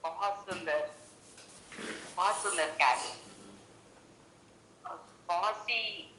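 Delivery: choppy breaking call line; robotic call audio. Real, not acted. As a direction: voice cutting out on a bad connection. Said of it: "तुम्हारी आवाज अटक गई है".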